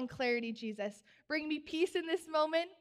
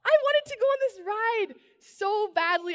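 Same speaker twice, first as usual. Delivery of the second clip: loud, high-pitched mock wail of protest; hammed-up cry of childish outrage; heartbroken outburst; 8 semitones higher, 8 dB louder than usual. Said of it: "I was so heartbroken".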